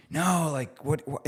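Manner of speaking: mild mock yell at a questioning daughter; sharp near-yell. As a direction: imitate snapping at a child. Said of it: "like, almost kinda yelling".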